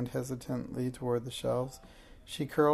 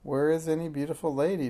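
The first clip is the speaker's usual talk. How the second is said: demanding; 3 semitones higher, 3 dB louder, faster than usual. Acted. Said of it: "demanded Jack".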